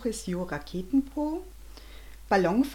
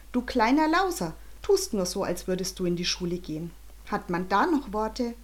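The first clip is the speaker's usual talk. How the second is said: mild angry scolding, pitch up at the start; angry father. Acted. Father scolds Jonathan, mildly angry. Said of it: "Bernhards Blick wurde zornig".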